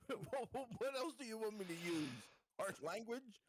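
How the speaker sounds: high, laughing mock-innocent question; sarcastic reply. Martin jokes back to the captain over comms, sarcastic. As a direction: play it dry and cheeky.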